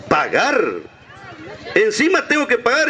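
mildly indignant, rising; a touch of outrage at having to pay; half annoyed. Retold or imitated. Husband protests to the caller, mildly annoyed. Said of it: "medio enojado así".

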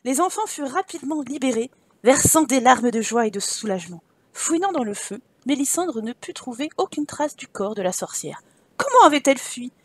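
expressive storybook narrator; story narration. Acted. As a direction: read with dramatic storyteller's phrasing. Reads game story aloud. (narration de conte expressive)

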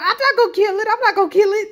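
lightly mocking a hesitant player; mocking Tim. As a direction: parrot him like a scared wimp. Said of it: "Talk about".

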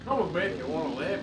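Terminator Austrian accent impression; best try at Austrian accent. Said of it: "I'm doing my best Austrian accent".

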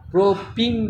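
প্রোপিন drawn out slowly, stressing the long "ee" in পিন; emphatic pronunciation. Shown as a demonstration. Teacher correcting what to write, প্রোপিন pronounced with drawn-out "-peen". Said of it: "প্রোপিন লিখতে বলছি".

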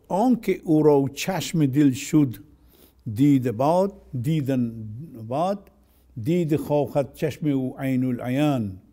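quick rhythmic Persian verse, loud at the start; Persian poem recital. Acted. Teacher quoting Rumi on the eyes of the heart, brisk recital. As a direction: recite the couplet briskly from memory.

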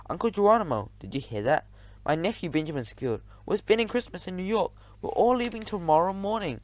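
high, loud, eager squeal of news; excited young nephew. A narrator's reading. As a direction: burst in with thrilling news, pitched high. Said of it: "Everybody was so excited".

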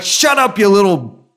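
high, hammed-up snap at noisy children; mock snapping at kids. Parent snapping at yelling kids, mock angry. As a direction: bite it off before the insult lands. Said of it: "you're like".

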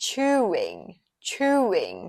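"chewing" with a long, distinct oo; clear oo in chewing. Shown as a demonstration. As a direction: say "chewing" slowly, falling, with a full oo vowel. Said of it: "คำนี้ก็ออกเสียงว่า". (ออกเสียง "chewing" เน้นสระอูให้ชัด)

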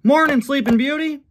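very high, loud wake-up call; hammed-up high yell; yelling Mater. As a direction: holler it in a high cartoon voice. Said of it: "yelled Mater".

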